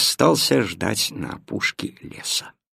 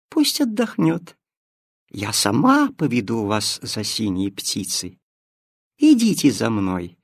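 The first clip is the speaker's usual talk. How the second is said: sly cat. Acted. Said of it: "хитро прищурилась кошка".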